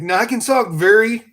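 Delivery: carefully enunciated Northern speech; northern accent. Shown as a demonstration. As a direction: drop the redneck talk for plain Northern. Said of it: "like someone from up north".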